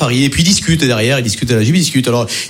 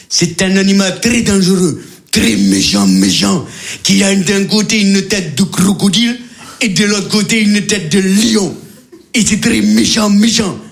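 emphatic, mostly raised guide voice; safari guide; 3 semitones higher, slower than usual. Acted. Guide explains the crocolion to tourists, emphatic. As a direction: play the guide stressing each feature.

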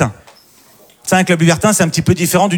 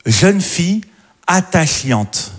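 drawn-out reading; 2 semitones higher, much slower than usual. Retold or imitated. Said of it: "elle avait écrit".

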